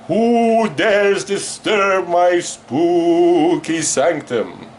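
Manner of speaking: campy haunted-house menace, drawn out; mock spooky host. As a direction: drag out each word like a campy ghoul. Host plays spooky horror host.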